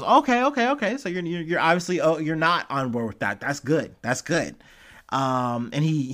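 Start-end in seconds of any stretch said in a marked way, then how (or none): 0.0-4.6 mock old-timey newsman voice, clipped and bright; lightly put-on mid-century anchor; transatlantic news guy. Impersonating Biden answering Republicans, lightly as a transatlantic newsman. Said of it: "I made him transatlantic news guy".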